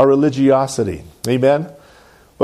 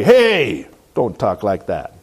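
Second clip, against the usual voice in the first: drawn-out scolding "Hey", then dropping low; mock an ugly telling-off; ugly rebuke; 6 semitones lower, slower than usual. Preacher showing how not to object, mock ugly. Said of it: "You don't have to be ugly".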